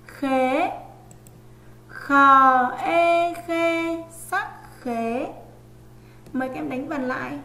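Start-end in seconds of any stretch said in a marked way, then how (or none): 0.1-0.7 "Khế" said a bit louder and set apart with a rising sắc tone; model word khế. Shown as a demonstration. Teacher to pupils, reading "Khế" before spelling it. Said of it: "Chúng mình hãy nghe cô đánh vần nhé". 1.9-5.3 "khờ ê khê sắc khế" spelled very slowly, higher and louder, each part drawn out; slow spelling out. Shown as a demonstration. Teacher to pupils, spelling "khế" out in slow classroom sing-song. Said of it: "nghe cô đánh vần nhé".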